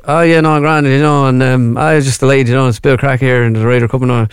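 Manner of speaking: lightly imitated thick Irish accent, words run together; Irish accent through a barely open mouth; nervous Irish mumble. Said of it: "would have been real nervous".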